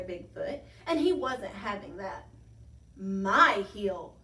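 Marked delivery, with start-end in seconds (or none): 3.0-4.2 loud, possessive monster grunt. A narrator's reading. Bigfootosaurus claiming the hill, loud grunt. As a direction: grunt it like a big territorial beast. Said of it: "he grunted".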